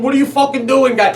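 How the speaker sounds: loud, high yell at another driver; road rage yell. Retold or imitated. Dad driving, yelling at another driver. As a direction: bark it at the car cutting you off. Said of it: "I'll go".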